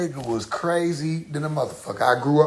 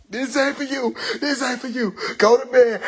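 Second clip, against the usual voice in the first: imitating mom; 8 semitones higher than usual. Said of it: "she was on the floor".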